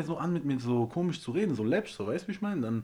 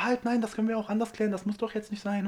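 higher, hurried plea to calm things; neighbour's wife pleading; 8 semitones higher than usual. Retold or imitated. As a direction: play the anxious wife backing down. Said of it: "Die so".

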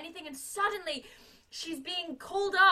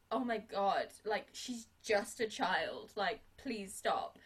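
pleading; 7 semitones lower, 5 dB quieter, slower than usual. Retold or imitated. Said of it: "Hannigan is like".

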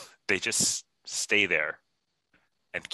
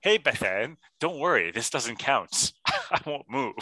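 mock Mormon guy; 5 semitones higher than usual. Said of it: "I can't do an accent".

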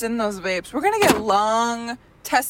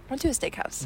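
throat still catching after coughing; strained retry after coughing; swallowed wrong way; 3 semitones higher, 6 dB quieter than usual. Real, not acted. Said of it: "Choking on my water".

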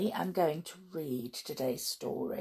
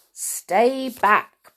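louder, higher cautioning call; urgent warning; 5 semitones higher, 7 dB louder than usual. Acted. Timid mouse warning his friend off a cat, loud and urgent. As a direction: warn a friend away from danger. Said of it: "Bernard warned".

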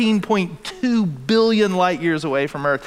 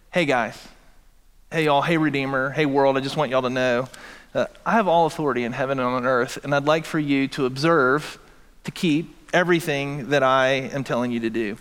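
mock casual claim; 3 semitones lower than usual. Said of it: "imagine with me ... if I were to".

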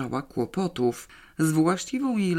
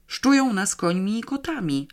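higher, jittery report; nervous; 6 semitones higher than usual. A narrator's reading. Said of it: "zawiadomił nerwowo".

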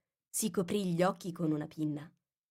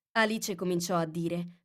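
plain reading voice

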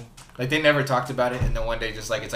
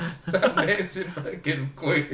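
slow, laughing dad yell; laughing quote; 4 semitones higher, much slower than usual. Retold or imitated. Retelling the dad in the film, slow laughing. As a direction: drag out the dad's line through laughter. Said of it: "He's like".

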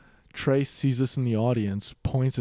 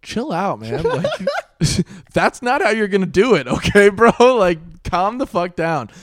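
telling him off; 8 semitones higher, 9 dB louder than usual. Retold or imitated. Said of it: "I was like".

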